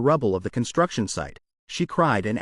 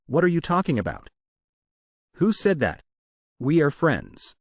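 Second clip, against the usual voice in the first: suara sedikit lebih tinggi, nada protes; raised voice; 3 semitones higher than usual. A narrator's reading. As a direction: protest sharply, voice raised a touch. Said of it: "Yun raised his voice and exclaimed".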